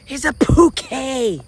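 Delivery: put-on little country accent. Little boy gives his mom a flower, excited country accent. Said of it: "Little country accent".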